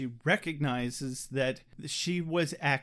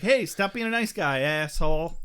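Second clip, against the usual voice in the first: angry ghost; 6 dB louder than usual. Retold or imitated. Ghost voiced by podcaster.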